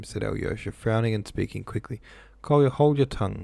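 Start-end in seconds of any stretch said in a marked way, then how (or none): 2.4-3.4 crying out. A narrator's reading. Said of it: "he cried to Krasotkin".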